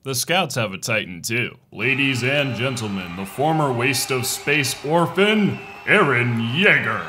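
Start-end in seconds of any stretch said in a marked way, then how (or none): 1.7-7.0 ring announcer. Pretend. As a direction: introduce the champion like a ring announcer. Introduces fighter like ring announcer.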